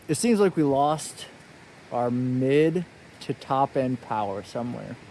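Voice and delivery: muffled under a helmet; talking through a helmet visor; inside a helmet. Real, not acted. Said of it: "I still have the helmet on".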